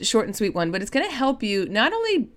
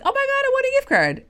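very high, squealing delight; thrilled texting; faster than usual. Retold or imitated. Telling a good friend about the gift card, high squealing joy. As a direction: burst out with glee at the win. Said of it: "I'm like".

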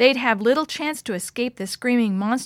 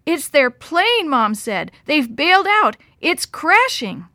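loud, high, slow frightened warning; frightened urgency; 5 semitones higher, 5 dB louder than usual. A narrator's reading. Mom explaining the crashing plane, frightened warning. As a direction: warn them in fear.

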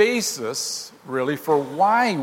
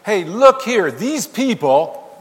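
loud sharp rebuke of the disciples; emphatic rebuke; 5 semitones higher, 7 dB louder, slower than usual. Retold or imitated. Pharisees rebuking Jesus over his disciples, emphatic loud rebuke. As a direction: scold like the Sabbath police. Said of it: "They're saying".

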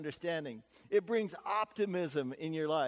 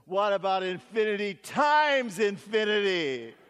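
put-on higher, louder, slow eager child; can hardly contain herself, child voice; excited little girl; 5 semitones higher, 7 dB louder than usual. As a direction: burst out like a kid who can't wait. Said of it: "could hardly contain herself".

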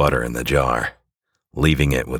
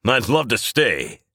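cheerful hero; 4 semitones higher than usual. Acted. Hero thanks baker, leaves.

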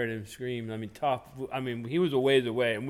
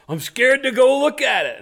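much higher and louder, hammed-up fright; mock scared; 11 semitones higher, 10 dB louder than usual. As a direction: play the spooked hunter for laughs. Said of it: "He says".

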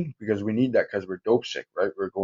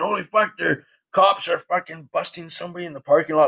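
excited exclamation; 5 semitones higher than usual. Retold or imitated. Friends rushing up with news.

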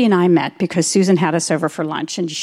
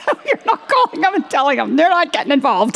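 firm refusal; 7 semitones higher than usual. Retold or imitated. Firm refusal of colleague's offer.

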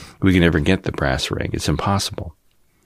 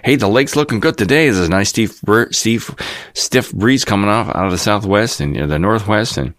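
folksy newscaster; 3 semitones higher than usual. Retold or imitated. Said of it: "it's really just a folksy".

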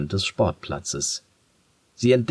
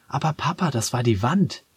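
protestierend; 5 semitones higher than usual. Acted. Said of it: "will sie noch protestieren".

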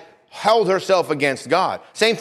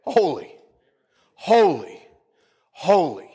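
reverent holy; slower than usual. Retold or imitated. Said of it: "And all they say is this".

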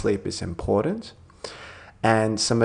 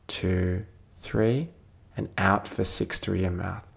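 calm, measured meditation voice with long pauses; guided meditation. Real, not acted. Doctor leading a listener towards sleep, calm guided meditation. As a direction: gently guide them through it, leaving space to breathe.

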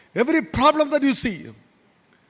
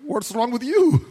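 snapping back. Retold or imitated. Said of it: "And I'm like".

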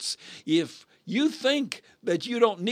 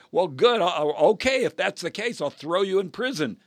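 higher-pitched acted threat; threatening creditor; 4 semitones higher than usual. Servant threatening the man who can't pay, stern. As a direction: threaten a debtor, mildly hammed-up.

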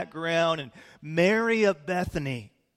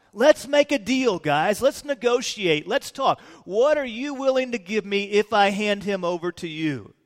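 eager haggling; 4 semitones higher, 3 dB louder than usual. Acted. Acted Judas bargaining with enemies.

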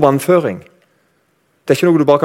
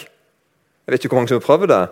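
ordinary talk, nothing marked

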